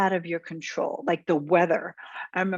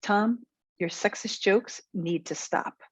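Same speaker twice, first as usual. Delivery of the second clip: slow, measured assertive demo; slow assertive statement; slower than usual. Shown as a demonstration. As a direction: state it slowly as a fact, no apology. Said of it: "here's an assertive response".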